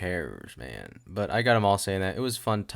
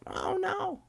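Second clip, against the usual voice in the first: mock panic.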